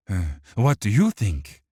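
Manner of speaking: sneering, mocking villain. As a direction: taunt him with a smirk. Dirge voiced.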